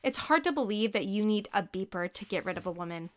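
a nasty mocking tone. Carrie mocking Eddie's beeper idea, nasty tone. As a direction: sneer it at him. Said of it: "in her nastiest voice".

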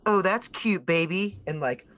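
high, sing-song teasing jeers; mocking heckle. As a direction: taunt him like a crowd heckler. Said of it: "you hear just like".

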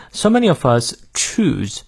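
"choose" with a long oo, lips well rounded. Shown as a demonstration. Teacher showing learners the vowels, long oo in "choose". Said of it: "注意是长乌，嘴型要足够圆".

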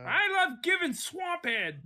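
high, slow froggy puppet voice; Kermit impression. Mocking Kermit for friends in a high, slow puppet voice. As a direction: squeak it out like Kermit. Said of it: "Hi, I'm Kermit".

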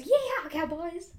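drawn-out whooping cheer; slow hammed-up yee-haw; mock yell. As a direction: whoop it like a cowboy. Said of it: "And just yells".

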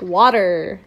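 low American "water" with a hard R; mocking American accent. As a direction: mimic an American saying "water". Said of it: "That's what you sound like".

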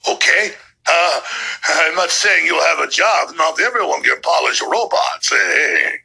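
hammed-up German villain accent; Klaus Schwab. Host mocking the globalist leader's plans, bad German accent impression. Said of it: "As Klaus Schwab goes".

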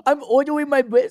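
"ordering" with mushy r sounds, high; mocking speech impediment. Teasing friend's bad accent, high impeded "ordering". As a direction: mimic "ordering" with r's softened toward l. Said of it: "Why do you have a speech impediment?".

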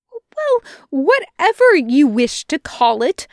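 high, flustered stammer; stuttering. A narrator's reading. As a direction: stumble over the words nervously. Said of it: "Aziraphale stuttered out".

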